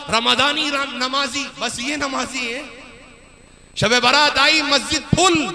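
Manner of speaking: forceful sermon narration, sustained; preaching. Acted. Preacher warning of Judgement Day, preaching. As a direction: proclaim it to the congregation.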